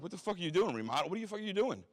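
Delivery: high, loud mock yell of disbelief; orderlies yelling. Orderlies yelling at the patient behind his barricade, high and loud. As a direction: shout it way up in outrage.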